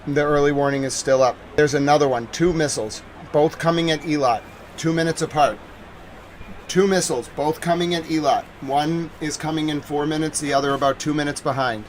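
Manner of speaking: measured, insistent missile warning; live alert bulletin. Real, not acted. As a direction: report incoming danger like a news alert.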